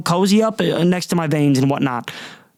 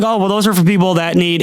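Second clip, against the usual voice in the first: know-it-all clerk; 4 dB louder than usual. Retold or imitated. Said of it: "he said it in a way ... had to be right".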